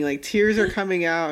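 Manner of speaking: usual speaking voice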